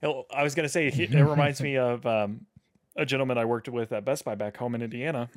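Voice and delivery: talking through hiccups; hiccuping between words. Real, not acted. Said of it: "Sorry for my hiccups there".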